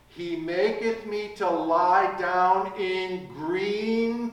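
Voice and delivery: slow, measured scripture reading; preacher reciting Psalm 23 slowly to the congregation; psalm recitation. Acted. Recites Psalm twenty-three.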